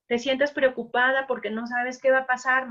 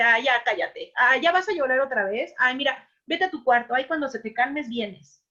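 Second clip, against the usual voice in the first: mock impatient scolding, louder; madre regañando; 3 semitones higher, 4 dB louder than usual. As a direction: imitate a fed-up mother hushing a crying child. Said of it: "la mamá les dice". (madre harta regañando al niño que llora, más fuerte)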